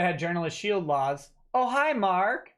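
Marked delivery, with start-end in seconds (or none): 1.5-2.5 movie quote impression. Quoting a famous movie line.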